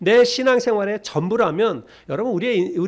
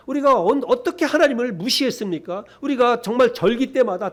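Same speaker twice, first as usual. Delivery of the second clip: higher-pitched, defensive protest; protesting in raised pitch; indignant protest; 4 semitones higher than usual. Acted. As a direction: plead innocence, acting out the accused people. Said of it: "뭐라고 항변하냐면".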